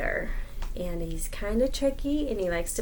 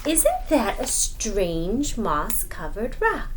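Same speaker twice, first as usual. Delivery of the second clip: slow, wondering question; drawn-out wondering spider; musing spider; much slower than usual. Acted. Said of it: "Anansi said".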